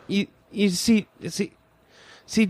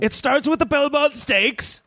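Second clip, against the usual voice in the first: posh voice; 2 semitones higher than usual. Acted. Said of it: "Why do I bother with this posh voice?".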